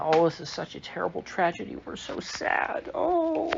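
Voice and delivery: hammed-up fake grief, the last "Oh" very high; mock sorrow. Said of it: "they all do the same thing".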